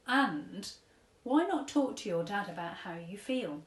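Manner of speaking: lightly voiced gentle old man giving advice; a hint of an old gent counselling a girl; kindly old tramp. Old tramp advises sad girl, lightly voiced kindly. Mister Stink advises Chloe.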